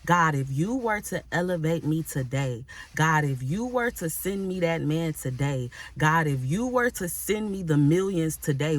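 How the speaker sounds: rising, searching plea to God; earnest self-questioning prayer. Shown as a demonstration. Preacher modeling a prayer for the congregation, earnest and rising. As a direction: ask yourself before God, building to a cry. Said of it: "really ask yourself and be real with yourself".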